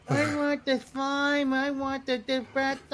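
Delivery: mock worker. Imitating the worker ordering.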